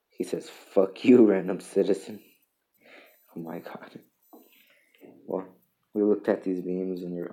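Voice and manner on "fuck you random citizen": a cartoon hero bursting out rudely; mock hero snarl. Superhero yelling at a random citizen, loud mock outburst.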